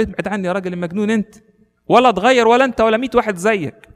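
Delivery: fast, then a loud high shout; angry brush-off. Retold or imitated. Thief shouting off the madman hermit, fast and loud. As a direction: shove him away with your voice.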